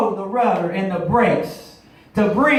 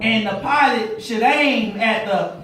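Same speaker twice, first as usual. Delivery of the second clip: preaching. Acted. Pilot lesson turned sermon.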